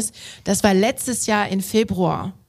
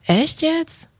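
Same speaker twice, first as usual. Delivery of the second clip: a higher, lightly mocking "really?"; retold astonished locals, lightly voiced; mock disbelief; 8 semitones higher than usual. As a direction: imitate people in surprised disbelief. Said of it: "haben die Leute".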